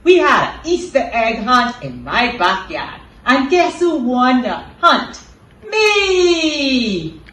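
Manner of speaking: put-on bright, high puppet boy bragging; chirpy kid puppet, excited; child puppet voice. Puppet boy RJ talks to Cindy.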